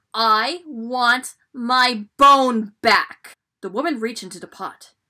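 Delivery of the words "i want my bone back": very angry, very loud, very slow drawn-out booming roar. Reading a story, the unseen voice speaks once more to the woman: very angry and loud. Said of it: "Now it sounded very angry, and it was so loud the whole house shook".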